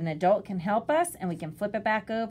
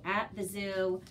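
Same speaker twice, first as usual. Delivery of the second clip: put-on reading to a toddler; 5 dB quieter than usual. Shown as a demonstration. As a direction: read aloud like a picture book. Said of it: "beginning readers with repetitive text".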